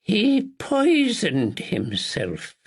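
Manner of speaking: slow, measured repeat. A narrator's reading. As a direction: draw each word out slowly. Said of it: "she repeated slowly".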